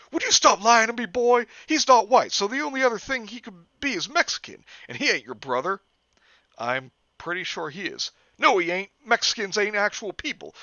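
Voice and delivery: loud hick cop. Acted. Cop argues with Jeff.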